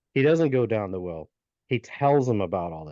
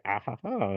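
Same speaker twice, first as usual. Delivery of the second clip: mock gloating laugh; 5 dB quieter than usual. Gnome laughs as he runs away.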